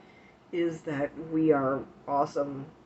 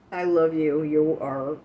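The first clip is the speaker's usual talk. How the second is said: gushing; 7 dB louder than usual. Real, not acted. Gushing thanks to a donor.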